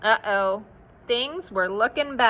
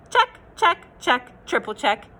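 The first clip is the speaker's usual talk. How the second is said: cheery checks. Acted. Checklist refrain.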